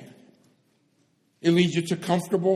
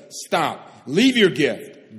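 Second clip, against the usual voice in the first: voicing Jesus; 3 semitones higher, 5 dB louder than usual. Jesus voiced in sermon.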